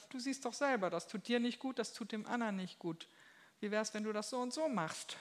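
höher, freundlich zuredend; sanfte Ermahnung. Retold or imitated. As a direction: rede liebevoll zu, ohne zu schimpfen. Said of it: "schimpft er nicht, sondern sagt". (Gott redet dem Menschen sanft und höher gut zu)

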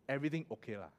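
relaxed Singlish "everything okay lah" with a soft falling "lah"; Singlish accent. Pretend. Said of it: "I can say".

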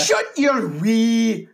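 loud, high, stretched mock Scottish accent; Irish slipping into Scottish. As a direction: attempt Irish and land in Scottish, shouting. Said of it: "No, no, that's Scottish".

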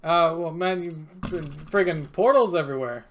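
put-on casual New York accent, bartender talk; lightly voiced New York bartender; New Yorker bartender. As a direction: play a local New York barman. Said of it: "this guy's turned into a New Yorker".

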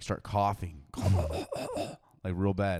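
hammed-up coughing fit; fake cough. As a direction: cough like you're choking. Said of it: "actually sounded like I was choking".

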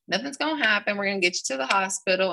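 high, quick retold reassurance; lifted pitch, hurried comforting; supportive. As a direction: imitate a coach soothing an injured player. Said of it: "She's real supporting".

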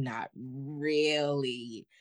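very slow, dry sarcastic aside; not really stretched out with sarcasm. Real, not acted. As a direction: drag it out dryly.

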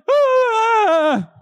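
high, loud joyful cry; the whole church gasping in delight; crowd cheer. Retold or imitated. The congregation cries out in joy at the baptism. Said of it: "everyone's like".

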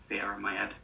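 "head" said without its H, as "'ead"; dropped H. Shown as a demonstration. Teacher showing the dropped H of the accent, "'ead". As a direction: drop the H on "head". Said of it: "like that".

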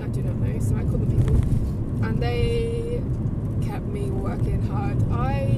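hoarse, cracking voice fading to breath; straining a worn-out voice; voice giving out. Real, not acted. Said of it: "I've just spent the morning losing my voice".

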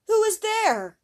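high, loud startled call; boy calling loudly to the white figure in the tower; cry out. Acted. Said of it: "cried he".

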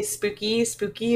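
softly voiced, breathy "Spooky, spooky" with a rising end; lightly spooky ghost-story voice; mock spooky voice. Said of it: "we always say".

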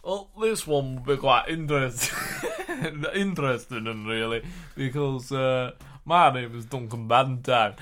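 light put-on Yorkshire accent. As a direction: play a Yorkshire pundit, half laughing. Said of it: "You are doing a Yorkshire accent".

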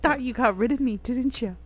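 gloating mock villain, lightly voiced; aggressive taunting villain. Voicing her period depression taunting her, mock villain gloat. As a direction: taunt them like a cartoon baddie. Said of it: "Very aggressive".

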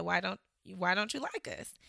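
taxi driver quoted. Retold or imitated. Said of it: "which I'm not gonna imitate".

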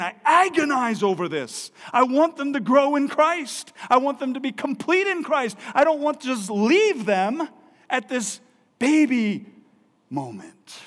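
high, loud pleading preacher voice; voicing Paul's anguish, loud and high; impassioned Paul. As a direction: cry out Paul's longing at full force. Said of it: "Paul's saying".

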